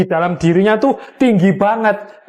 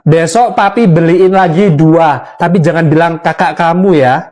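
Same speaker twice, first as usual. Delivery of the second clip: indulgent father; 5 semitones lower than usual. Acted. Father answering child.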